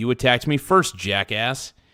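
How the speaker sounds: plain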